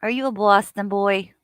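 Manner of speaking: put-on light, imperfect Boston accent with a Brooklyn lean; attempted Boston accent. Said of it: "I don't think that was a Boston accent that I just did".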